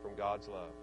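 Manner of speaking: low, measured reciting of scripture; scripture recitation. Acted. Preacher reciting Scripture to the congregation, solemn recitation. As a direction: recite the verse solemnly, voice dropping toward the end.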